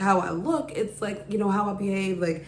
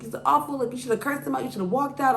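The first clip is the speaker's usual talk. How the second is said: higher-pitched retold indignation; imitated outrage; 5 semitones higher, faster than usual. Friends urge her to walk out, mock indignant. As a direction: imitate friends going off about him. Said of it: "they were just going off".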